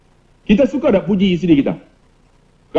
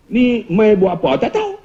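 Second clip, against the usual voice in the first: higher Kedah question, lifted on "tahu"; Kedah dialect; 4 semitones higher than usual. Retold or imitated. Ustaz mimicking Kedah questioners, Kedah dialect. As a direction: mimic a Kedah asker with a rising tail. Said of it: "Orang Kedah ni tak tahu semua".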